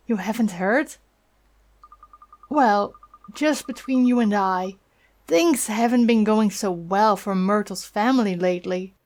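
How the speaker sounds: lightly voiced old woman, chatty and concerned; a hint of a kindly busybody leaning in; gossipy old neighbour. Neighbour gossiping to the boy, a lightly voiced old woman.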